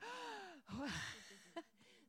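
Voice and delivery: sharp rising shocked gasp; imitated collective gasp. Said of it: "And everybody got".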